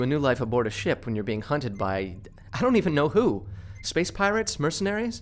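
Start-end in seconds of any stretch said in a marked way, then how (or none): 2.5-5.2 exasperated. Acted. Frustrated about being hunted.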